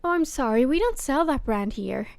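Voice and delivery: polite shop clerk, lifted and sorry; the corrected, politer take; customer service voice. Retold or imitated. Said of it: "I went".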